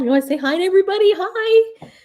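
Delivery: high sing-song voice for the cat; talking to the cat. Real, not acted. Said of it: "I'm doing a live".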